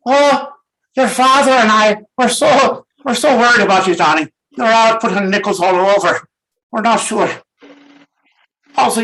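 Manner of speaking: high, loud fretting mum; hammed-up anxious mother; worried mother. Mother voiced worrying about son.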